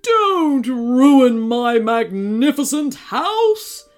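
loud, slow monster bellow; hollering storybook monster; upset monster yell. A narrator's reading. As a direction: draw the words out in a big protesting yell. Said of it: "he yelled".

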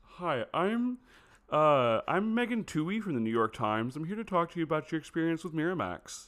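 mock American accent sliding into another impression; Carrie Mulligan. Podcaster plays reporter introducing herself, overdone American accent. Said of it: "that's turning into Tim Gunn".

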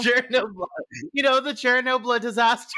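high, loud "Chernobyl" said as "Sher-no-bla"; mock French pronunciation. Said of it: "That is a very French version".

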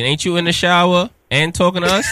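laughing. Real, not acted. Host laughs at caller.

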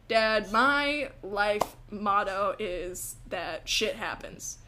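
slow, measured declaration; mock solemn. Daughter giving dad a silly answer, slow and deliberate. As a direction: spell it out slowly, deadpan. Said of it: "giving him, like, a, a silly answer".

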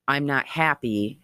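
a hint of an eerie recorded voice, measured cadence; restrained imitation of a voice in static; lightly imitated ghostly voice. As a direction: lightly mimic a spirit voice, each repeat set apart. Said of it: "weird cadence".

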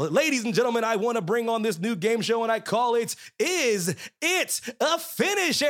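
hammed-up game show host. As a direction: announce it like a TV host. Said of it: "put on my game show voice".

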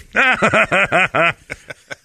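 high, loud mock guffaw; imitated officer's laughter. Officer laughing at his prank, imitated loud and high. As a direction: burst of loud retold laughter. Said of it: "then I just hear".

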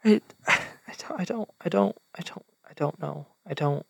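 whispered, broken stammer; Hope falling apart, barely voiced; breaking down. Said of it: "puts her hands in her face and she goes".

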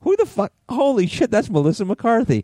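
high astonished cry; amazed. Retold or imitated. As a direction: squeal it in disbelief. Retelling shocked reaction watching SNL.

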